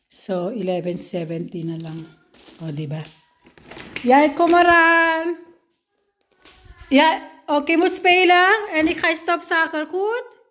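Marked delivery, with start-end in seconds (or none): 4.1-5.3 high, loud, drawn-out call; slow, stretched high shout. Real, not acted. Calling the child to come. 6.9-10.4 loud high-pitched caregiver talk. Real, not acted. Talking to the child in her care.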